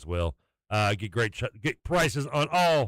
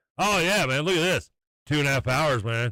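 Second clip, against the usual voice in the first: put-on mock-bragging boastful voice, higher; 5 semitones higher than usual. Retelling how Ty once bragged to the speaker, imitating Ty bragging. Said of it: "He was bragging as if he just".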